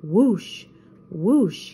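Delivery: playful spoken whoosh, twice; whooshing ski noises. A narrator's reading. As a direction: imitate skis swishing past. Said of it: "pretended to ski".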